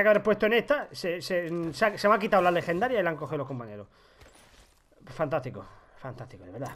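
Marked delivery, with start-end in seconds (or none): 5.1-6.7 sarcastic. Real, not acted. Sarcasm after losing scope.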